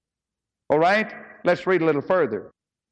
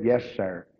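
respectful yes sir; 6 semitones lower, 3 dB quieter than usual. Retold or imitated. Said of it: "I like the way he said that".

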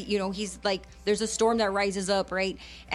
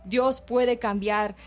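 earnest bilingual preaching, rhythmic and insistent; fervent radio sermon delivery. Acted. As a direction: preach it to the listeners with conviction.

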